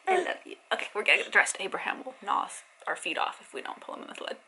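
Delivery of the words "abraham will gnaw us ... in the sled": whispered. Real, not acted. Muttered joke about dog.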